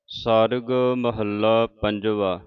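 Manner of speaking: slow, measured ਸਾਰਗ with no nasal before the g; correct pronunciation. Shown as a demonstration. Teacher reading the shabad heading for the congregation, correct pronunciation. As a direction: say ਸਾਰਗ slowly, plain r into g. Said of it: "ਠਿੱਪੀ ਤੋਂ ਰਹਿਤ ਹੈ ਸਾਰਗ".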